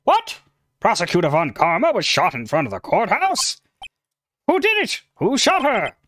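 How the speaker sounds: shocked. Acted. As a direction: blurt it out in sudden alarm. Shocking news of shooting.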